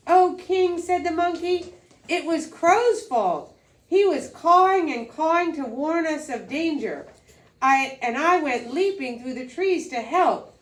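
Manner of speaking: nervous monkey. Acted. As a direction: excuse yourself to the king fearfully. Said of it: "He came before him nervously".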